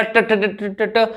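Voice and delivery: ट repeated in rapid, stuck bursts like a stammer; stuttering imitation. Teacher imitates a stammerer stuck on ट. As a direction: get caught on ट and repeat it. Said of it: "हकलाने वाला".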